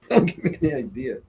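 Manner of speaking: chuckling through the words; amused, half laughing; laughing repeat. Real, not acted. Streamer answers a viewer's Heineken idea, laughing.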